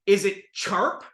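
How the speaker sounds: "sharp" said as "charp"; brother's ch for sh in "sharp"; sh turned to ch. Retold or imitated. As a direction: say "sharp" with a ch at the start. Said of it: "take sh sounds and make them ch".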